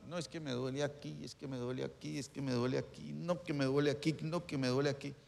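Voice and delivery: a lightly voiced complaining believer; whiny complainer. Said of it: "hay gente que uno dice".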